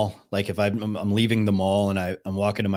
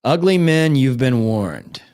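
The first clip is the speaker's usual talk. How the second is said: loud, slow ominous warning; mock warning; 2 semitones higher, 3 dB louder, slower than usual. Streamer warning ugly men, a loud slow mock warning. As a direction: boom it out as a mock threat.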